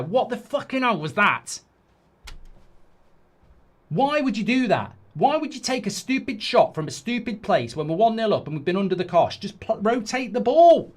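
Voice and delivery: frustrated fan berating a reckless shooter; angry rant. Real, not acted. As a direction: tear into the player for the stupid shot. Ranting at a bad shot.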